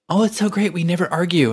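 put-on high, gushing girly voice; girl's voice. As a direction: pitch it up like a happy wife. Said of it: "you made a girl's voice".

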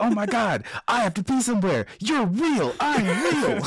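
high-pitched mock starstruck gushing; flustered excitement. Acting out bumping into an online friend at a convention, flustered excitement. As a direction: blurt it out giddily, acting out the encounter.

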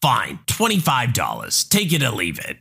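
lightly voiced pushy mom, wheedling; a hint of a demanding mother bargaining; entitled mother voice. Entitled mother haggling with the narrator, pushy.

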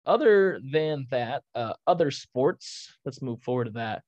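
winded after a rant; catching breath between phrases. Real, not acted. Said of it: "I gotta catch my breath a little bit".

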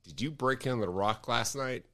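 low, soft and quick accusation; lightly voiced interrogating friend; accusing Jeff. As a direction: friend on phone, mild mock grilling. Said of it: "And he goes".

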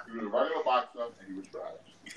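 chewing through the words; mouth full. Real, not acted. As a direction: talk round a bite of food. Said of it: "I'm eating right now".

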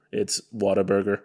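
a light American accent on Whataburger. Shown as a demonstration. British co-host showing off his one American accent line. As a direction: say Whataburger like a Texan would. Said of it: "one thing that you can say with an American accent".

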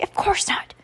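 high, emphatic stage whisper. A narrator's reading. Heidi to little brother at the door, whispered. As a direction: whisper a firm denial. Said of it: "Heidi whispered".

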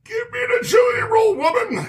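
high, fast, insistent shout; exasperated mock demand. Real, not acted. Game master orders arguing player to roll, high rapid shout.

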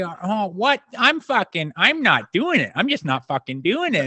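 Phil Kessel's high voice. Retold or imitated. Teammate mimicking Phil griping in his high voice. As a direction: stretch it out in a high squeaky whine. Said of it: "he's just got this higher pitched voice".

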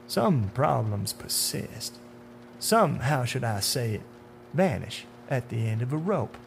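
coy, measured menace with pauses; hint darkly, phrase by phrase; sinister man in dark suit. Acted.

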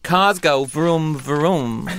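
low, slow grunting brute; dumb caveman voice. Acted. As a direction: say it like a dim Neanderthal. Cartoonish Neanderthal Vin line.

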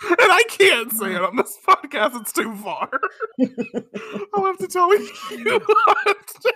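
high, squeezed words through laughter; real laughing fit. Real, not acted. Host can't say the joke on the podcast, helpless laughter. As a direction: struggle to talk while cracking up. Still cracking up over unsayable joke.

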